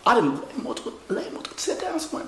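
freaky hushed whisper. Acted. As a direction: whisper it creepily. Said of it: "freaky voice ass".

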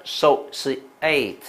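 associate very slowly, split into syllables; dictation model. Shown as a demonstration. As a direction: softly sound out associate piece by piece. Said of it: "所以你当我听一个".

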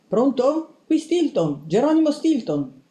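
high-pitched, expectant phone greeting; answering the phone. A narrator's reading.

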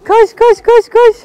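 high, loud chant of encouragement; excited cheering. Real, not acted. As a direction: urge the little one on, full of glee. Cheering toddler to run. (koşan çocuğu coşkuyla yüreklendiren anne)

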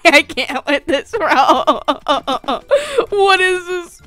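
talking through breathless laughter; helpless laughter. Real, not acted. Player losing it at their own sus act, laughing. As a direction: crack up until the words barely come out.

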